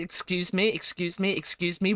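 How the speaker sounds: quiet, clipped mock offense; mock offended. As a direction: feign being offended, softly. Mock offense at clown remark.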